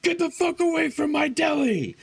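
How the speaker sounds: high, strained yell at the customer; furious yell. Retold or imitated. Clerk ordering a rude customer out of his deli, furious high yell. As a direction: throw her out of the deli at the top of your voice. Slams counter, throws customer out.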